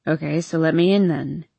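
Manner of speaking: lazy, lightly slurred words; town drunk. Acted. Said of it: "slurring his words".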